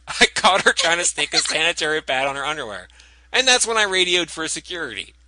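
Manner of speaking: folksy Southern witness voice; Southern accent. Retold or imitated. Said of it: "also in a singer's voice".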